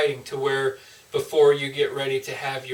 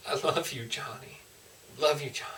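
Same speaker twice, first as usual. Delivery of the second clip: soft, tender repeats, fading on the name; tender father's love; 6 dB quieter than usual. Retold or imitated. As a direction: pour out a father's love, gently. Speaking the father's love to Johnny.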